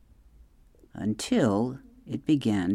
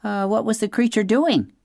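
nervous weasel voice; 10 semitones higher than usual. A narrator's reading. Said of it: "said Dart the weasel".

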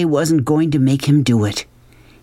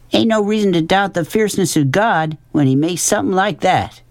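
plain-spoken Southern woman, higher pitch, awed; lightly voiced Willie Mae; 8 semitones higher than usual. A narrator's reading.

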